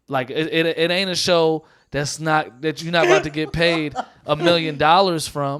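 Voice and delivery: building fire as the point lands; passionate. Real, not acted. Comic ranting to co-hosts about unpaid gatekeeping shows, getting passionate. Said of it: "Now who's passionate?".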